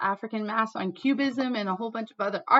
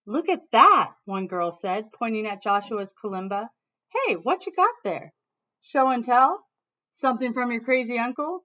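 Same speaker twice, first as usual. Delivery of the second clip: mocking tease; 2 semitones higher, 6 dB louder than usual. Classmates teasing Joshua about his kalimba, mild mocking. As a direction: poke fun at the new kid.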